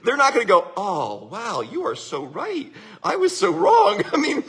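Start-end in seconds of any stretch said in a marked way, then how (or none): 0.8-4.0 slow, hammed-up admission of being wrong; exaggerated fake contrition; mock repentance. Mock reply of an ugly person.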